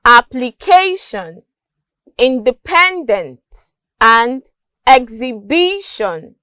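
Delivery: "application, independent, exhibition", each stressed on the third syllable. Shown as a demonstration. Teacher listing examples, "application, independent, exhibition" stressed on third syllables. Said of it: "stressed on the third syllable".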